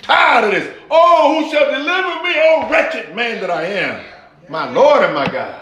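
high, laughing lament of a struggling man; anguished Apostle Paul. Retold or imitated. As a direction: cry out like a worn-out apostle, half-laughing. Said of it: "So Apostle Paul said".

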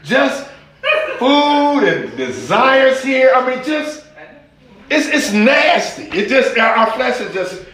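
high, laughing disgust at the flesh. Real, not acted.

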